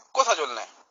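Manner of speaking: کوتھا said with a Pahari hill-dialect lilt; a third region's Pahari way of asking where you're going; Pahari dialect demo. Shown as a demonstration. Teacher showing students a Pahari-accented question. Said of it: "تیسرے کہتے ہیں".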